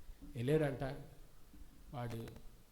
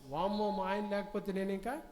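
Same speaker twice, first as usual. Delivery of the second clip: mock wailing wife; 5 semitones higher than usual. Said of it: "పెద్దగా ఏడుస్తుంది".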